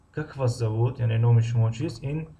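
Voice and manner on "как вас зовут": slow, зовут stretched and lifted at the end; lingering rise on зовут; rising ending. Shown as a demonstration. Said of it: "интонатсионная қисми се аст".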